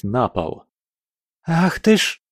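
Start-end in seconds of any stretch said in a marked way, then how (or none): 1.5-2.2 high breathy startled exclamation; startled gasp. A narrator's reading. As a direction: gasp it out in alarm. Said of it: "выдохнула Настя".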